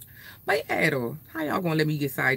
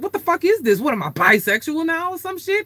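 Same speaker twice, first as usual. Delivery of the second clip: 1 freaked-out inner voice; 11 semitones higher than usual. Retold or imitated. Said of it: "I was like".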